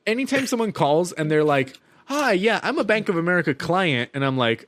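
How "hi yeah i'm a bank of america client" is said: a hint of a chirpy caller, pitched up; lightly mock a customer with a higher voice; imitated caller. Acts out a naive caller.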